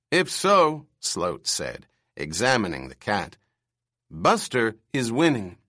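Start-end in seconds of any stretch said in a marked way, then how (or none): 0.1-0.9 put-on screechy old man. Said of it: "his bird screech voice". 4.1-5.6 put-on screechy old man. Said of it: "his bird screech voice".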